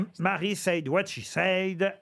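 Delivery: put-on slow, playful English accent. Host repeats the play's title and venue, put-on English accent. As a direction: carry the English accent over into the French words. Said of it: "je vais utiliser mon meilleur accent anglais".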